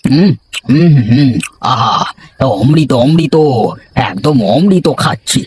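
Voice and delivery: mild delighted food appreciation; savouring food. Acted. Savouring the tasty curry.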